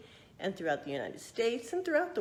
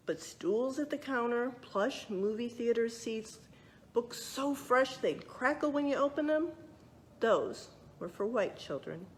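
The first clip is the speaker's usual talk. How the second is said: lively storybook narration; reading to children; 3 semitones higher than usual. A narrator's reading. Librarian reading a true story to children, lively narration. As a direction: read it out like a picture book for kids.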